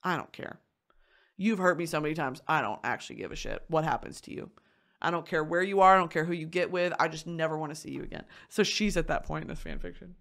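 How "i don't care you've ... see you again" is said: acted cold indifference; apathetic. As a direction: past caring, said without heat. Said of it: "beyond denial of just apathy".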